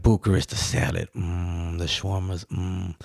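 soft, dreamy mmm over each dish, a touch hammed-up; mock-savor each dish like it tastes amazing; wife savoring food. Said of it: "my wife is licking her lips".

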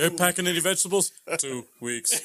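fast, loud movie quote imitation; a hint of the film's woman; Total Recall lady. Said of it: "Total Recall, the lady".

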